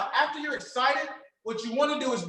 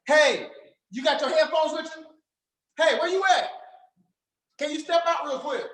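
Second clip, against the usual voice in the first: pumped-up caller; 2 semitones higher than usual. Shown as a demonstration. Coach demonstrating how to get the caller excited. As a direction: get them hyped to step out. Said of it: "you gotta get them excited".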